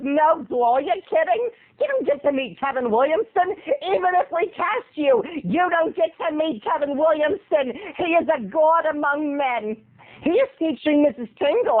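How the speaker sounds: lightly voiced incredulous agent; mildly hammed-up reverent agent; casting woman. Casting woman scolds, reveres director.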